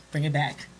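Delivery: quiet, soothing "Bring it back"; calm reassurance. Retold or imitated. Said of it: "he's genuinely calm".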